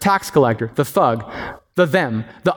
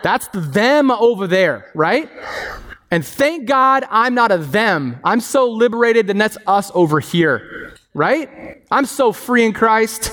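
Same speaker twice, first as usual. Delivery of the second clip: slow, higher, self-satisfied preen; mock smug superiority; 5 semitones higher, slower than usual. Pastor mocking his own smug pride, slow and higher. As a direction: gloat lightly as the proud free believer.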